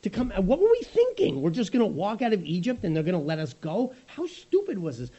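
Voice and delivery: sulky crowd moaning at Moses; mock-despairing, self-pitying whine; whiny grumbling Israelites. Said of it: "and they say".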